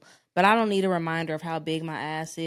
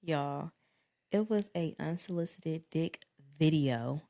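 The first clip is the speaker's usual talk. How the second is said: anger turning to laughter; 4 dB louder, slower than usual. Real, not acted. Revealing unsolicited video, then laughing.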